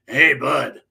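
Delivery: gravelly voice, lightly imitated; a hint of gravel in a retold greeting; Val Venus. Wrestler greeting a stranger at the CD racks, lightly gravelly. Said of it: "this gravelly voice go to me".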